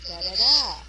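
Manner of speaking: Da da da with one beat punched loud; loud uneven stress rhythm; stress-timed rhythm. Shown as a demonstration. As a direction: slam the stressed da. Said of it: "it can sound like this".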